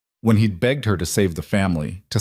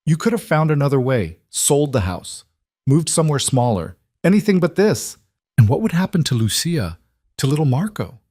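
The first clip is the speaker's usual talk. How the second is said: higher, pleading fury building to a peak; rising anger; 6 semitones higher than usual. Acted. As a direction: throw every lost option at her. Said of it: "Gabriella's voice rose to match her daughter's".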